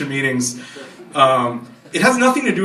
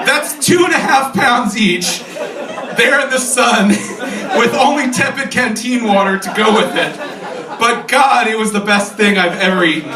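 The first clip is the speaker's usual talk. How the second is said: droll reading, pitched higher as the tale climaxes; Steve Metz; 5 semitones higher than usual. Retold or imitated. Reading the advisor's beloved bacon story to old friends, droll. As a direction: read out a tall tale with droll relish. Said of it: "Steve's voice, which is extremely droll".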